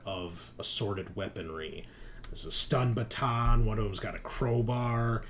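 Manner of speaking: measured scene setting with suspenseful pauses; unfolding action narration; game master's narration. Pretend. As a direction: open loud, then reveal it phrase by phrase.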